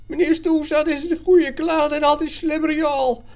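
very high, loud squealing voice; terrified barber's high protest; panicked pleading. A narrator's reading. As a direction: squeal a desperate defence. Threatened barber pleads his innocence.

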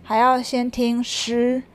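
mock cross. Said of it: "那贝尔是生气了".

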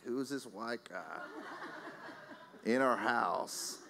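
slow, laughing mock question from the ladies; laughing imitation. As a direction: retell their surprise through a laugh. Ladies quoted catching him inside.

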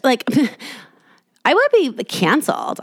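high, laughing mock dread; laughing mock panic. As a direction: giggle through the fake panic. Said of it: "you think you're so fucking cool".

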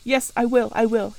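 loud, grim vow; through set teeth. Acted. Rochester swears to Jane through set teeth. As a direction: force it out, jaw clenched. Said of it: "he set his teeth".

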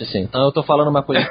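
usual speaking voice

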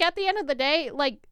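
ordinary talk

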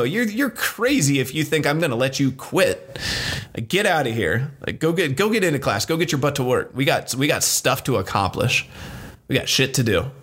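half-playful tough-love coach ordering them to class; pushy coach. Retold or imitated. Coach scolding client for quitting.

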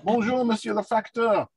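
high, bright-voiced hello to the postman; excited greeting. Real, not acted. The speaker greets the postman at the gate, thrilled. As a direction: greet him like the best news of the day. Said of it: "hear the excitement in Daniel's".

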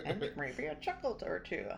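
mock his folksy old-man read; grandpa voice. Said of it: "You sound like such a grandpa".

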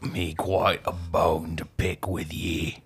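hammed-up British-Australian accent; put-on British-Australian accent. Podcaster teasing co-host, put-on British-Australian accent. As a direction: pick a mock quarrel in a fake British-Australian accent. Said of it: "before I lose my accent".

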